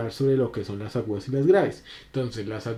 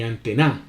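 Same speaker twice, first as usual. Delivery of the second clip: antena stressed on the last syllable, an-te-NÁ; wrong final stress; 3 semitones lower than usual. Shown as a demonstration. Teacher showing another way antena is not said, stressed an-te-NÁ. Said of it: "porque tú no dices antena".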